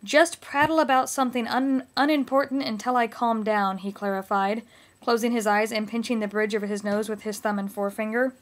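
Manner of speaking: lightly hammed-up romance reading; hammy stage actor. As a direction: overblown dramatic book reading. Reads a selection from Twilight.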